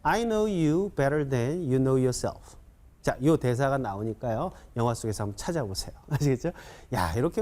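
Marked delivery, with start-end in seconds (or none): 0.0-2.6 slightly quicker, joined-up model sentence; whole sentence in one connected go; a bit faster. Shown as a demonstration. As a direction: run the phrases together a little faster. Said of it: "좀 빨리 시작".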